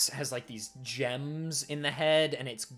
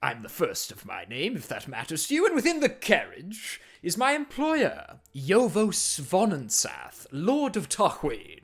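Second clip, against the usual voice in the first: armored warrior's voice; 6 semitones higher, 5 dB louder than usual. Acted. Warrior praising the party after battle, high and loud. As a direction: greet them grandly as a gleaming warrior. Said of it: "and he says".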